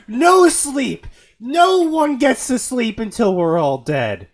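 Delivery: a playful tyrant forbids sleep, loud and hammy; mock villain shout. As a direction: bellow it like a cartoon tyrant. Mock villain decree to chat.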